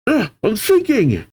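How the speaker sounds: high-pitched mock panic; panicked cry. Brogy sinking into flames, acted high panicked cry.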